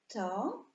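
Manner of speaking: "To-ruń" in two separated syllables, "To", long pause, "ruń"; podział na sylaby. Shown as a demonstration. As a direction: count out "To-ruń" piece by piece. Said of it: "ile sylab ma słowo Toruń?". („To-ruń” sylabami, z długą pauzą)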